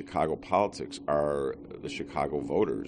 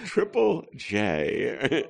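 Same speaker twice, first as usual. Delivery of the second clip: suppressed laugh; 8 semitones higher, much slower than usual. Real, not acted. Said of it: "I'm trying not to laugh".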